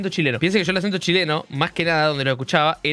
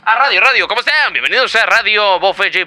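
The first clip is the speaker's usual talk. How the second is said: mock radio host; 7 dB louder than usual. Streamer greeting viewers as a radio DJ, loud and hammed-up. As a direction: hype it up like a DJ on air.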